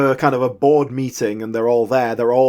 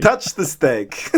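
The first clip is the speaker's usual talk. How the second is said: slow, hammed-up Russian accent sliding toward Dracula; comedy Russian accent; much slower than usual. Retelling Griffiths' Russian character offering steak, slow mock Russian accent. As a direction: stretch the words in a mock Russian like a cartoon count. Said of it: "that was a bit Dracula".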